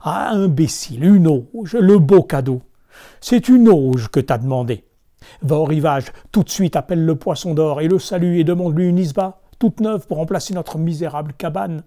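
loud furious nagging wife; wife yelling orders at husband; angry shout. Acted. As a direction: scream at the foolish husband. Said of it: "la femme crie de plus belle".

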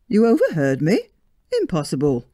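surprised. Acted. George astonished by his wife.

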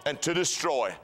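rising to a high shout on kill; scripture quote. Acted. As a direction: proclaim it, peaking on kill. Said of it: "It says".

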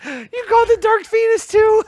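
high, slow, amused disbelief; surprised. Real, not acted. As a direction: draw it out in disbelief.

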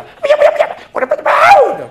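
very high, loud repeated shriek; shrieking wife. Acted. 침실에서 아내가 아주 높고 크게 날카롭게 외치듯. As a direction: squeal it over and over in mock panic.

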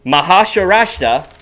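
"Maharashtra" slowly, syllable by syllable; sounded out. Real, not acted. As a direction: sound out "Maharashtra" like a first-grade reader. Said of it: "great pronunciation there".

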